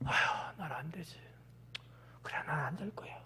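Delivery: sighing, low, very quiet giving-up; deflated resignation. Acted. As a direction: fizzle out in a defeated near-whisper. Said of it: "이러고 피식 꺼지는 거예요". (한숨 섞어 낮고 힘없이 포기하는 말)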